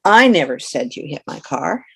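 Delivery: I said with a rising lift; the stress falls on I. Shown as a demonstration. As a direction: hit the word I. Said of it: "For example".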